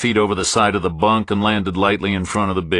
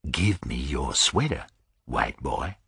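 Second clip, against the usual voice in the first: low, softer threat; quiet menace; 5 semitones lower, 7 dB quieter than usual. Acted. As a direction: say it softly with menace.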